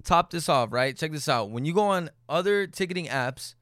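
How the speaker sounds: casual, direct sponsor read; podcast ad read. Real, not acted. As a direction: sell it to loyal listeners in an easy host read. Podcast host reads sponsor ad.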